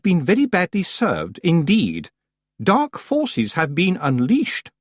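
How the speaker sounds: haughty Missus Earwig. A narrator's reading. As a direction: pronounce doom grandly. Earwig ominous pronouncement.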